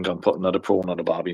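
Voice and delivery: mock Australian tease. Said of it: "taking the mickey out".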